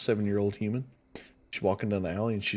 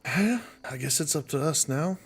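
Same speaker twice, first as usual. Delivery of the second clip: imp; 6 semitones higher than usual. Acted. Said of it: "The imp comes back visible and says".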